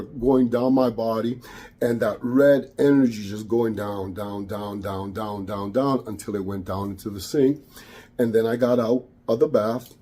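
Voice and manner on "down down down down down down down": soft, trailing chant of down; fading repetition. Real, not acted. Guiding energy down the drain, softly fading. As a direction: let each down sink lower and softer.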